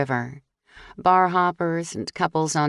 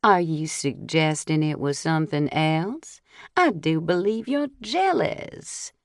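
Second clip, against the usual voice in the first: put-on Scarlett O'Hara accent. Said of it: "I took on a Scarlett O'Hara accent".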